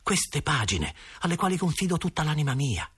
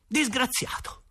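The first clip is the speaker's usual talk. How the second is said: higher, hurt and defiant; a boy flaring up, much higher; indignant outburst; 11 semitones higher, slower than usual. A narrator's reading. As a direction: throw the word back at him. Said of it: "e scattai".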